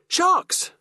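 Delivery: high squeaky reply; squeak. A narrator's reading. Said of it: "I squeaked".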